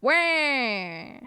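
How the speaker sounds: high, loud cartoon villain yelp; Waluigi's trademark wah; Waluigi cry. Shown as a demonstration. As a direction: bark out a nasty Wah. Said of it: "I can do Waluigi".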